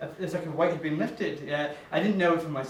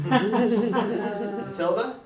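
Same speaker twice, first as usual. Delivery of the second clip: cool line; 3 semitones higher, much slower than usual. Retold or imitated. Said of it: "That's what I wish I said".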